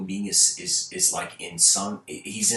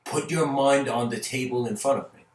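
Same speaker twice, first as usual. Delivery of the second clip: mock lion roar; 4 semitones higher than usual. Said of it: "he roars at him and says".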